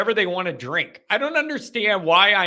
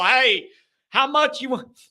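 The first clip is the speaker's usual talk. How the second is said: raised-pitch rowdy bragging; reckless daredevil; 3 semitones higher than usual. Acted. Daredevil bets he can light a bottle rocket, rowdy bravado. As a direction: dare them like a cocky drunk.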